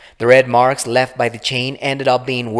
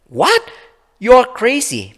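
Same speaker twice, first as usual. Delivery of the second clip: much higher, loud disbelief; shocked outburst; 14 semitones higher, 6 dB louder than usual. Acted. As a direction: blurt it out in shock. Laura shocked, accusing Darren.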